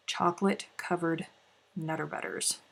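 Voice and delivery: soft, dropping, reverent naming; hushed, longing repeat of the treat's name; awed hush. Real, not acted. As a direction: breathe the words in awe.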